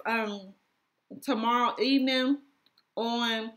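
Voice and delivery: talking while chewing gum; words around a wad of gum. Real, not acted. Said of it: "I got this gum in my mouth".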